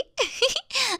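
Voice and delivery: high, breathy embarrassed giggle; a nervous little giggle to cover the slip. Acted. Laughs at own slip.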